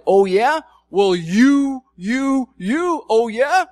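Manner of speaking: mock defensive retort. Defensive partner firing back in a quarrel, hammed-up retort. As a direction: splutter back in hammed-up outrage, slowing at the end.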